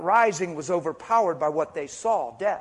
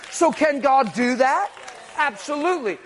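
rallying shout; 6 semitones higher, 4 dB louder than usual. Real, not acted. Preacher rallying congregation.

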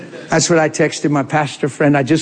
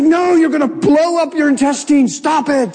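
laughing tease; 9 semitones higher than usual. Retold or imitated. Teasing his stressed friend.

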